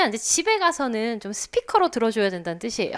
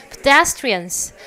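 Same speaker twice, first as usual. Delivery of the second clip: slow drill of Pedestrians, stress on des; light first syllable; 4 dB louder, much slower than usual. Shown as a demonstration. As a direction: stretch Pedestrians, keep pe small. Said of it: "페도 크게 읽으시면 안 되고".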